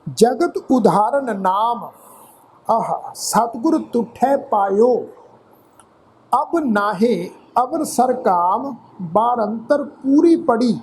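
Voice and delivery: slow, measured Gurbani reading with drawn-out word endings; scripture recitation. Shown as a demonstration. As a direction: recite phrase by phrase, pausing between.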